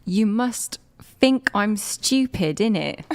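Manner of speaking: slow, cheeky British "innit"; mock British accent. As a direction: lean on it like a London lad. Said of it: "British people be like".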